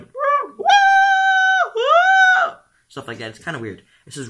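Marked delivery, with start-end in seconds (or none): 0.0-2.5 very high, loud mock cow woo; cow calls. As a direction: hoot like a frisky cow. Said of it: "Cows going".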